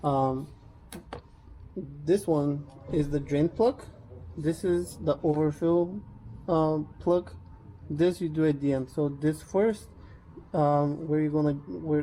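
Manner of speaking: speaking while lying on back; talking from under the car. Real, not acted. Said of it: "I'm under the car".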